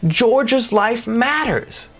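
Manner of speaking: high pleading call, drawn out; pleading, high and slow. Pretend. A friend begging bystanders to save George, high and slow. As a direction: beg them slowly to care. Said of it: "So you're saying".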